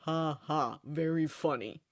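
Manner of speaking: dry, unamused fake laugh; sarcastic. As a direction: brush off the heckle with sarcasm. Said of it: "Lucifer says sarcastically".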